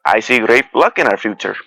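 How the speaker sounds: mock-hopeful, sarcastic prediction. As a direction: say it with understated sarcasm. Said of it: "I say sarcastically".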